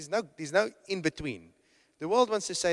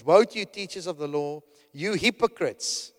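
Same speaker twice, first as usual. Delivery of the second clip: stern rebuke; 5 dB louder than usual. Retold or imitated. Jesus denouncing teachers of law.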